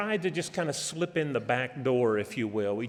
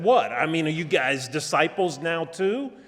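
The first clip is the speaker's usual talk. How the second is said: ridiculing; 4 semitones higher, 5 dB louder than usual. Retold or imitated. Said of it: "began to ridicule them and belittle them".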